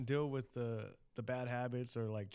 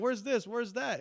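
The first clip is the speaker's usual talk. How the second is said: imitating annoyed wife; 8 semitones higher, 4 dB louder than usual. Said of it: "My wife gets pissed off".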